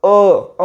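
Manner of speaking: अ held as a plain "uh"; phonics sound of U. Shown as a demonstration. Teacher answering how U sounds, held अ. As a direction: say अ, not the name "yoo". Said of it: "यूचा उच्चार काय होतो?".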